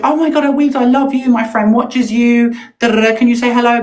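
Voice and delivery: a hint of an overexcited fan; gushing fan voice. Retelling to her rival, mock-gushing fan voice. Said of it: "she walked".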